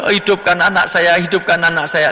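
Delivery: imitated wailing prayer, lightly done; imitated crying. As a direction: plead to God like a weeping parent. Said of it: "ada orang yang nangis".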